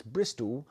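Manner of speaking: "Bristol" said in a mildly mocking way; mocking pronunciation. Shown as a demonstration. American joking about a British city's name, mildly mocking "Bristol". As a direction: poke light fun with the word "Bristol". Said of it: "I want to mockingly pronounce".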